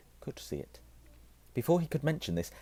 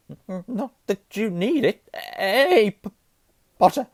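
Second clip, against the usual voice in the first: high, loud, jittery stammer; nervous Quirrell; 13 semitones higher, 10 dB louder, slower than usual. A narrator's reading. Professor jokes to Harry, stammering nervously. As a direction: stutter with a nervous bleat. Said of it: "He laughed nervously".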